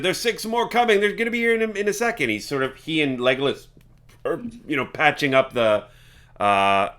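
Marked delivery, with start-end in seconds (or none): 0.0-2.3 high-pitched character voice; Gale. Acted. Game character warning of six more coming, high role voice. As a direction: raise the pitch well up for the warning. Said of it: "he's like, he said".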